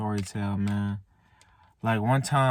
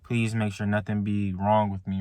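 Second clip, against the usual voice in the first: quiet, softer begging prayer; soft retold pleading; 3 dB quieter than usual. Outside urgent care, softly praying for healing. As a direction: gently act out pleading with God. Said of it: "I was pleading. I was like".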